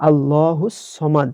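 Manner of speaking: slow, with সমাদ short and not সামাদ; careful teacher recitation; correct recitation. Shown as a demonstration. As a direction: model আল্লাহুস সমাদ carefully. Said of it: "আমরা অনেকে বলি সামাদ".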